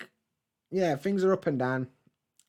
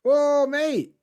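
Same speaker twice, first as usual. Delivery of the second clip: delighted surprise; 12 semitones higher, 9 dB louder than usual. Real, not acted. Thanking a viewer for donation.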